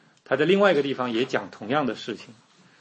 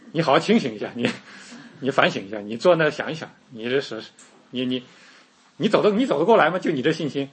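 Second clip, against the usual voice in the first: scornful lecture, louder and fast at the peak; mock scolding; 4 dB louder than usual. 牧师假想自己训斥彼得，嘲讽地责备. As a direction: scold him like a smug know-it-all. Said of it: "我一定会说".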